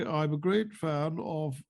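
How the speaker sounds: slow, drawn-out posh MP voice; lightly voiced Rees-Mogg; Jacob Rees-Mogg impression. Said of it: "Jacob Rees-Mogg".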